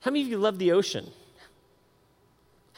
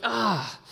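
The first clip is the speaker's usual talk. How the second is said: higher-pitched "ah" of alarm; mock panicked "ah"; 5 semitones higher than usual. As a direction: act out a snorkeler's panicked cry. Mimicking his panic while snorkeling.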